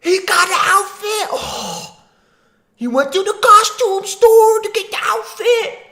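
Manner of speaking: high, loud shrieking through laughter; delighted laughing yell; laughing shout. Real, not acted. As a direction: howl with laughter at the costume. Laughing at costume in clip.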